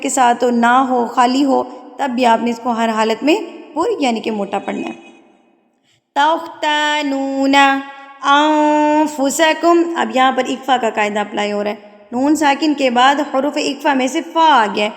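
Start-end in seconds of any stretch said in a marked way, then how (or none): 6.1-9.9 slow melodic recitation with a heavy kha; Quran recitation. Shown as a demonstration. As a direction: chant the verse slowly. Recites verse slowly.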